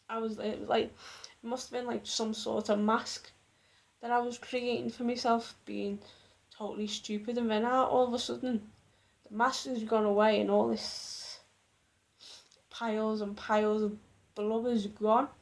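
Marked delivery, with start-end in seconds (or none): 5.6-15.3 teary with a runny nose; snotty crying. Real, not acted. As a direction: sniffly, close to crying. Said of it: "Sorry, my nose is running".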